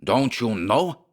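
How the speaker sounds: slow mock shriek, high. Schmersholt shrieks at the narrator, German accent. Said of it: "he shrieked".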